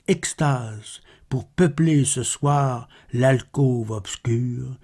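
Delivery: measured, understated poetry reading; solemn recital with restrained pitch; poem recitation. Acted. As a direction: recite the verse softly, pausing between phrases. Recites third Baudelaire poem.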